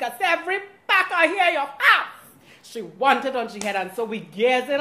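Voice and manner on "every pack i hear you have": eager demand. Retold or imitated. Demanding hair packs from hairdresser.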